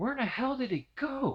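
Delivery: high, hushed stage half-whisper. Retelling what a cousin said in the dark: imitating a half-whisper. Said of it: "My cousin Randy whispers to me".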